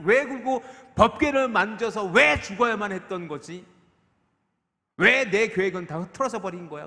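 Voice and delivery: loud, high-pitched exasperated questioning; David's self-directed anger. Acted. David angry at himself over his ruined plan, loud exasperation. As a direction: hammer out each "why" in heated frustration. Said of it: "스스로에게 화가 나 있는".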